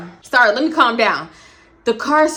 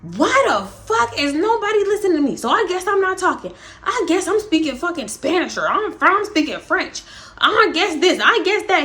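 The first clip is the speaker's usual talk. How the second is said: higher-pitched mock grumbling rant; angry man in the front seat; 5 semitones higher than usual. Dude in the front seat griping to himself in mock voice. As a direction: complain that nobody listens, pitched up. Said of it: "all you hear is the dude in the front seat like".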